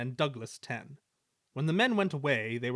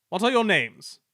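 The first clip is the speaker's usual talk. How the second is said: much higher and louder; loud demand; 7 semitones higher, 9 dB louder than usual. A narrator's reading. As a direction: demand it sharply. Controller demands loudly.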